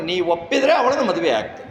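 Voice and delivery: laughing through the quote; laughing mock request, stress on ಒಪ್ಪಿದ್ರೆ; amused irony. Shown as a demonstration. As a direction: chuckle at how ironic it is. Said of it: "ಎಷ್ಟು ವಿಡಂಬನೆ ನೋಡಿ".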